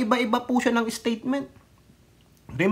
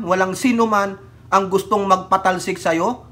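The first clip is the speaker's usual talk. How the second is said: ordinary talk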